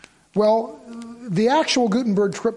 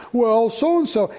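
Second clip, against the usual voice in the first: drawn-out mock protest; lightly hammed-up child's complaint; imitated complaining child; 4 semitones higher, 4 dB louder, much slower than usual. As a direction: stretch it out like a kid arguing with a parent. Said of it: "everyone says it".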